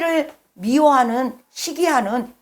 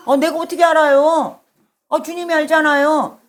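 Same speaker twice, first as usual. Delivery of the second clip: higher-pitched, protesting retort; defiant Cain talking back; 5 semitones higher than usual. Acted. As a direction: act out a defensive comeback to God. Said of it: "가인이 하나님한테 이렇게 대드는 거예요". (대들며 따지는 말투)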